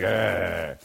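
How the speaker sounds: low imitated groan; reluctant groan. Man told to pray, imitated reluctant groan. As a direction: mimic a soft, low groan of dismay. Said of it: "He was like".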